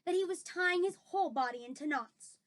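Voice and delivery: lively reading with emphatic action words; dramatic story narration. A narrator's reading. Reader describes the nightmare's grip, dramatic story narration. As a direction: tell it with mounting drama.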